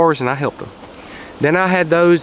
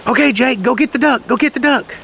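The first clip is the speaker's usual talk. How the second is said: higher, raised call to fetch; calling the dog; 8 semitones higher than usual. Retold or imitated. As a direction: urge the dog out into the pond. Hunter calling dog again.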